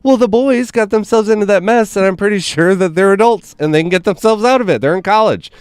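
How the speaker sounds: high, matter-of-fact mother voice; tough-love mom. Retold or imitated. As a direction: shrug the boys off like a no-nonsense mom. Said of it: "she's like".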